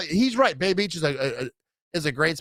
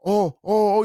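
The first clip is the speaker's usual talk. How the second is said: higher, louder mock-scared oh; 5 semitones higher, 3 dB louder, slower than usual. Buddies on the ice pretending to be scared. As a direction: fake fright. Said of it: "trying to act scared".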